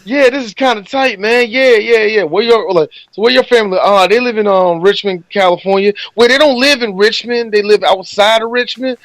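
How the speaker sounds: lightly voiced dude bluffing along; a hint of a clueless know-it-all. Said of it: "But he was like".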